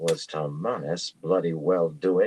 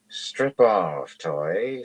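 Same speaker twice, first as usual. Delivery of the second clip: commanding; 3 semitones higher, much slower than usual. Acted. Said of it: "in the same tone she had used with her maid".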